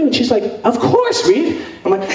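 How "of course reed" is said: high, bright yes; high eager agreement; eager Dylan. Retold or imitated. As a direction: agree instantly, voice way up.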